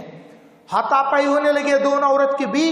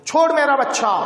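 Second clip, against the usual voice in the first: angry cry; 4 semitones higher, faster than usual. Acted. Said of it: "कहती है, लपकती है".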